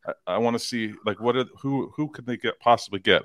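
halting, repeating the words; stuttering. Real, not acted. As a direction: stumble over the words, searching. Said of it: "I'm stuttering because".

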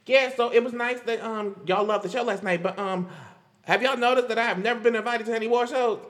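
lightly acted social media complaint; imitating a singer's post. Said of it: "and she was like".

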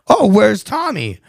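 drawn-out slow "where's Tommy"; slow pretend line. Son dictating dad's line, slow and exaggerated. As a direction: stretch it out like a staged bit.

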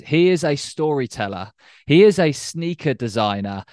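presenter's welcome with lifted pitch; podcast host introduction. Acted. Podcast host reads the show introduction.

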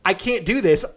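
high, loud, slow, laughing through it; defiant and giddy, laughing at them; defying managers who say he can't; laughing defiance. Retold or imitated.

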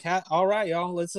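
put-on a quick taste of Southern accent. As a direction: slip playfully back into a Southern accent. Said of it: "you come back with that accent".

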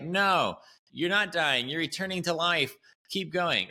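high, pushing coach voice, half mock; upbeat instructor. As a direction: cheer them on like a peppy instructor. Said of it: "the instructor's like".

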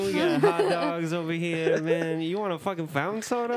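high, put-on hawker's voice; hammed-up stadium vendor patter; snack vendor. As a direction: call out your wares to passing fans. Plays a vendor hawking snacks.

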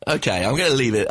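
normal talking voice

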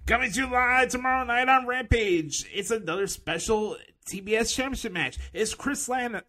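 lightly voiced TV announcer plugging the show; mock announcer. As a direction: parody a wrestling promo read. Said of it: "let's do the excrement impression".

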